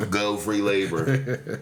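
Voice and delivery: slow sarcastic cheer. Acted. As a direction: drag it out with sarcasm. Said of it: "I'm being sarcastic as fuck".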